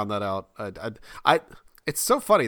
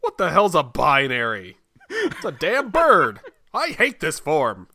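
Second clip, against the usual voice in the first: mock grump; 5 semitones higher, 5 dB louder, slower than usual.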